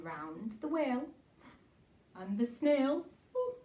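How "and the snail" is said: plain reading voice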